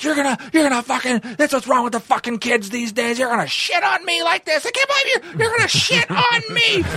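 very high, shrieking, rising scream. Retelling his reaction to being told the speaker can't work; reenacting him screaming. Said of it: "he started screaming".

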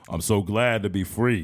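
low, slow, deep voice. Joking about her return from prison, imitating her: deep-voiced Brittney Griner impression. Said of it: "she still had a deep voice when she came back".

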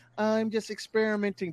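normal talking voice

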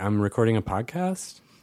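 statement ending on rising pitch. Describing a speech trend in cities and demonstrating it, in upspeak. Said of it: "there's more of a trend around this where it's like".

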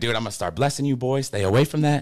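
ordinary delivery

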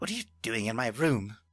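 hissing voice. Voicing Chandler, caught unpacking in the captain's quarters: hissing. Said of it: "then hisses".

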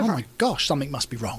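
ordinary talk

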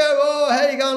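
acted high, laughing, matey tone. Retelling to a listener how a relaxed man greeted people at a social gathering; imitating a joking, laughing greeting. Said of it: "he's sort of joking and laughing".

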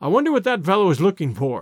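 ordinary delivery, nothing marked

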